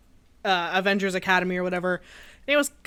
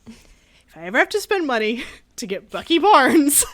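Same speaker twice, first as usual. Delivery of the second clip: laughing; 4 semitones higher, 4 dB louder than usual. Retold or imitated. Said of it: "I said".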